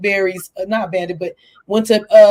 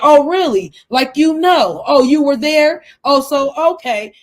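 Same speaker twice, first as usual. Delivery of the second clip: higher, louder mock defensive retort; imitating defensive snap; 5 semitones higher, 4 dB louder than usual. Host mocking Brooks getting defensive with everybody, high sarcastic retort. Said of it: "then she gets defensive".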